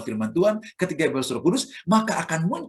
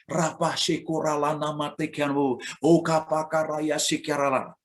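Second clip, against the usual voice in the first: slow, even tongues demo; fluent tongues; slower than usual. Shown as a demonstration. Preacher showing mature, orderly tongues, slow and steady. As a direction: speak it calm and ordered, slowly. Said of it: "mulai rapi".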